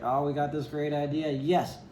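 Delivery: mock-excited inner thought building to a cheer; excited idea voice. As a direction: play the thrilled inner voice cheering a great plan. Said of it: "it's like".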